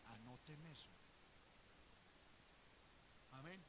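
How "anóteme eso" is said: devil's order. Retold or imitated. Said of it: "Le dicen al demonio de chisme".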